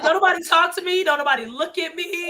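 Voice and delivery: mock cranky warning to everyone; retold cranky. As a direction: play up your grumpy bedtime self. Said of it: "But then the next morning".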